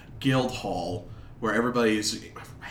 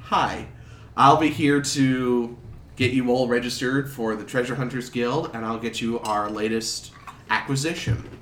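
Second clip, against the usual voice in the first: friendly clerk voice; 2 semitones higher than usual. Acted.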